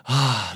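acted-out sigh of relief; relieved sigh. Speaker recalls learning the word introvert, sighing in relief. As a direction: let out a demonstrative sigh of relief. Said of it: "โล่งอก".

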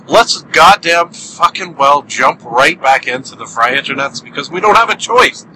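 fired-up, swearing rant; a mock-aggressive outburst. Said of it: "an apology for getting so aggressive".

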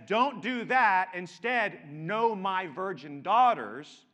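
slow, loud plea from Lot to the crowd at his door; pleading Lot. Retold or imitated. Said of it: "when Lot says".

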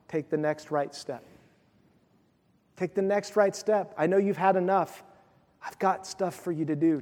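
quiet tender voice of encouragement; still small voice. Acted. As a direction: hush it down, gentle and close, coaxing a weary prophet. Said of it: "God in a still small voice says".

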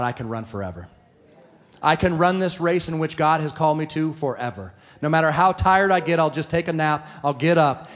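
building preaching declaration; faith declaration. Shown as a demonstration. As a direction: proclaim it with growing force. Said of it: "I would have said more things".

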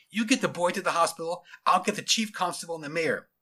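a hint of brisk policeman; lightly voiced officer in charge. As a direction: hand out urgent instructions.

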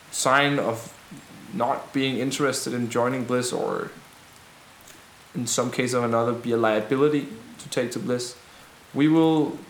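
formal, measured reply to a crowd; rebel leader's speech. Acted. Rebel answers worried wives about the guards, measured formal speech. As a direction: pronounce terms with deliberate pauses.

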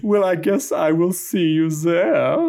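put-on light German accent, a parting line; a hint of a German accent, signing off. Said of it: "take it kind of in a Flula Borg direction".

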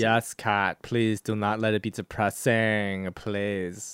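imitation Russian accent; Kat's Russian accent. Co-host begs guest host to avoid depressing films, mock Russian accent. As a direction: plead in a put-on Russian accent. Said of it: "trying to do my cat impression".

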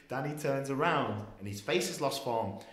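ordinary talk

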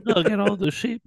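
high stammering piglet voice; a nervous little pig stammering out his promise; Babe the pig voice. Retold or imitated. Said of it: "I think that's what Babe sounds like".

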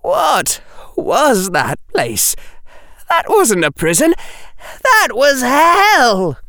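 high, slow, rising to a cry on hell; a boy horrified and near tears; choked-up. Acted. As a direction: push it out through a lump in the throat. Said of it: "Harry's voice was blocking".

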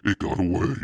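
put-on boy yelling loud and high about his spider; shouting. A narrator's reading. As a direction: yell it above the din. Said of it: "Steve shouted over the roar".

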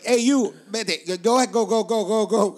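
mock cop order. Cops shooing them off.

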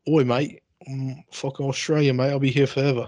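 hammed-up Aussie mate voice; put-on Australian accent; mock Australian accent. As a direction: fake being an Aussie local, badly Australian. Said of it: "be deceitful and say".

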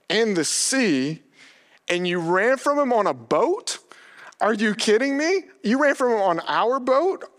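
acting out alarmed disbelief, pitch climbing; panicked, terrified. Terrified sailors confronting Jonah on their boat, acted panic. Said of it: "they're panicked and terrified".

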